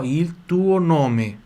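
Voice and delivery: very slow, separated Italian words; deliberate pronunciation model; piece by piece. Shown as a demonstration. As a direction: stretch each word, sounding the L of "Il". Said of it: "Atenção pro som do L aqui".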